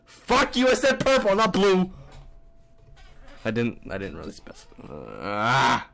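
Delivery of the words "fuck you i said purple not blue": higher angry insistence; insistent correction. Real, not acted. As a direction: correct it angrily. Wrong colour drops from case.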